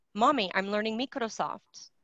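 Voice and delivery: put-on light child's voice, Microsoft said as mee-krosoft; daughter's accent. Mother imitating her daughter's accent, lightly voiced. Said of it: "That's her accent".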